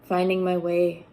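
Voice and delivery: measured recital with deliberate pauses between lines; spoken poem, each line set apart and firmly begun; poetry reading. Acted. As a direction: read your poem to an audience, phrase by phrase. Reads own poem aloud.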